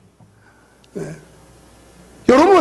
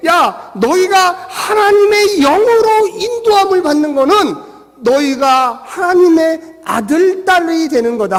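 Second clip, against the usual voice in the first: 사도 바울; 4 semitones higher than usual. Acted. Apostle declaring to believers that they are God's children, emphatic proclamation. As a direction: proclaim it slowly like an apostle addressing his flock. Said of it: "그래서 이 사도 바울이".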